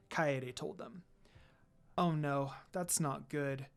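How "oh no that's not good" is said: worried. Acted. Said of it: "in a worried tone voice".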